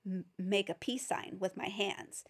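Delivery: whispered aside; soft secret teacher aside; breath-only explanation. Real, not acted. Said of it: "teacher whisper".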